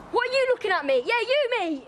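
excited call-out. Real, not acted. Interrupts intro, calls out someone.

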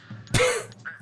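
high, nervous giggle; squeaky laugh. Real, not acted. Player fumbling the parry, high nervous giggle. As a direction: laugh at your own mistakes.

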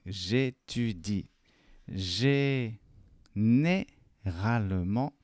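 slow, drawn-out French syllables; deliberate teacher's model with stretched vowels; slow model reading. Shown as a demonstration. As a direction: dictate it syllable by syllable, very slowly.

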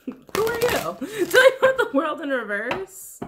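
high, drawn-out comic voice; silly high-pitched quizzing, stretched out slow; playful mock questioning. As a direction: ask it in a squeaky put-on voice, jokingly. Playfully mimics herself questioning the cards.

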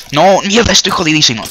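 high, loud panicked cursing. Real, not acted. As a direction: yell in real panic. About to die.

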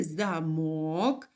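замок with мок stressed and stretched; stress on second syllable. Shown as a demonstration. Teacher analysing the lock word, second-syllable stress on замок. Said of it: "не наголошений".

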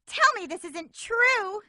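slow, high, pleading outcry; dismayed cry. Acted. Amy cries out in dismay at losing. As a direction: refuse to believe the loss.

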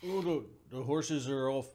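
loud, high exclamation; excited outburst. Real, not acted. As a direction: blurt it out loudly.

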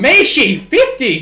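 loud, high cheer at a big play; real gamer hype shout; excited shout. Real, not acted. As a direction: yell it out as the run breaks free.

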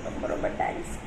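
choked, barely voiced thanks through tears; tearful whisper. Real, not acted. Sister weeping as she thanks her brother, tearful whisper. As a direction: thank him while crying, almost no voice. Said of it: "ஏக்கா அழுவுற?".

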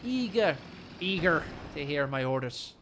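Scottish attempt slipping into Irish; lightly put-on Irish accent; a hint of Irish, missing the intended Scottish. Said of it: "That's an Irish accent".

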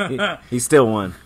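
laughing. Real, not acted. Co-host laughing at the joke.

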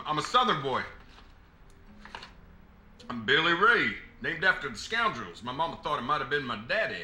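put-on light Southern accent, proud introduction. Attendant introducing himself to the lady, in a light Southern accent. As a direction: introduce yourself like a good old Southern boy. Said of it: "putting on a Southern accent".

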